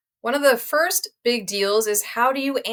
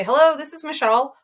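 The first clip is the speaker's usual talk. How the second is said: phone greeting; 5 semitones higher than usual. Retold or imitated. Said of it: "sometimes I'll say".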